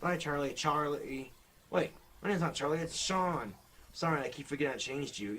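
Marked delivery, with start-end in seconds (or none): 1.7-3.5 higher dummy voice, indignant; dummy correcting its owner's mistake, higher pitch; puppet correcting. Acted. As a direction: correct him as the offended puppet. Dummy corrects his name.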